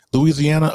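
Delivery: Louisiana with every syllable sounded; full pronunciation. Shown as a demonstration. Co-host asking how Louisiana is pronounced, full form. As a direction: say Louisiana in full, loo-ee-zee-AN-uh. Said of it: "is it pronounced".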